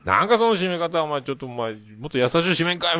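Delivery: high, loud mock outburst in Hakata dialect; rough Hakata scolding. Father scolding his son for slamming the curtain, rough scolding. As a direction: re-enact a dad blowing up, pitch and volume jumping. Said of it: "博多弁でわーって言ったら".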